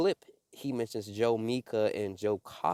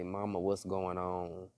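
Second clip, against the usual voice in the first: soft, slow retold murmur to mama; lightly voiced, slow question, quoted softly; ever so lightly; 2 semitones lower, 6 dB quieter than usual. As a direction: imitate someone speaking faintly and slowly. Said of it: "ever so lightly".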